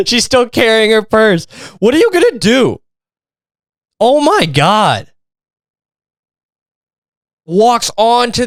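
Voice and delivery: high, slow, incredulous retelling; stunned disbelief at the mom; disbelieving exclamation. Real, not acted. Reacting to the video of the mom, high and incredulous.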